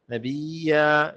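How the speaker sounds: نبیا with the y held double; doubled ya. Shown as a demonstration. Teacher models tashdid for learners, doubled y in نبیا. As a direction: lean on the ی of نبیا. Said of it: "یہاں پہ تشدید کریں".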